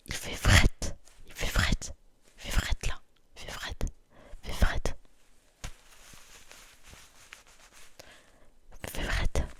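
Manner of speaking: whispered "fret" with the Quebec vowel and a final t; Quebec pronunciation demo. Shown as a demonstration. Telling viewers it's cold, in a whispered Quebec accent. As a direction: repeat "Il fait fret" like a Montrealer, whispered. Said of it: "j'ai un peu mon accent en chuchotant".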